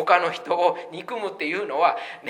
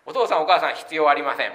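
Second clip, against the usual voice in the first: mock defiant child; 6 dB louder, faster than usual. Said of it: "っていうのと一緒ですよ".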